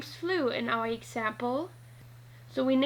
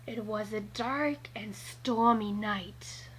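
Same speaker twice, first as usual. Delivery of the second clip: a touch of spooky; 3 semitones lower, 4 dB quieter, slower than usual. Shown as a demonstration. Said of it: "How would you feel if you hear this".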